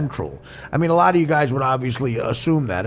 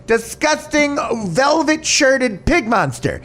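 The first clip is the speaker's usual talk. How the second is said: imitating the gay guy; 8 semitones higher, slower than usual. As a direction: ham up a sneering, dragged-out put-down. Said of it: "I'll do the gay guy".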